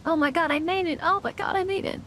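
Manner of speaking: relieved laughter. Real, not acted. Barely making the jump.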